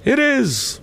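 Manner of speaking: very high, slow spectral pronouncement; foreboding ghost. A narrator's reading. Ghost announcing the haunting to Scrooge, foreboding high voice. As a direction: intone it high and drawn, like a doom. Ghost confirms the grim promise.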